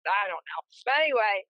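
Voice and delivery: windy speakerphone sound; phone speaker. Real, not acted. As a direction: voice through a phone in wind. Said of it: "I don't know why it sounds like that".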